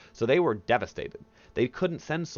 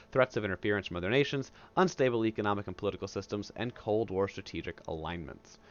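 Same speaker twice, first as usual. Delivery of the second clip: reading from textbook. Acted. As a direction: read it straight off the page, a bit subdued. Reads textbook passage aloud.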